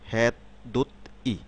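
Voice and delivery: "হ্যাঁ দোত ই" in separate pieces, t closing "দোত"; written-form "হ্যাঁ দোত ই"; syllables as written. Shown as a demonstration. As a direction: break "দোত" from "ই" with no blending. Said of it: "এই সিলেবলগুলো যখন শব্দে".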